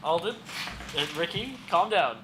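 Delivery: mock scolding. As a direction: hold them back with a hammy shout. Joking calls to calm down.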